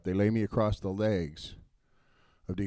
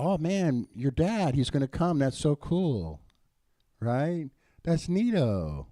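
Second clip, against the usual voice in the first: higher, excited gush over the dads; 4 semitones higher, 3 dB louder, slower than usual. Retold or imitated. Young men telling buddies their dads came, excited and higher. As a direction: play it like a thrilled kid who thinks it's so cool.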